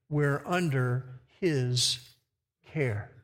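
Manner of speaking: slow reverent reading of hymn words; hymn recitation. Acted. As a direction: recite the hymn lines slowly, gently. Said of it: "part of the words of that hymn".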